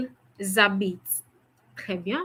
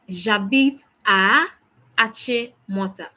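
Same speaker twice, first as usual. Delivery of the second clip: slow, careful French, a touch louder; slow model answer; 4 dB louder than usual. Shown as a demonstration. Teacher modelling the answer for students, slow and clear. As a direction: model the answer slowly for the class. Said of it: "How do you say that?".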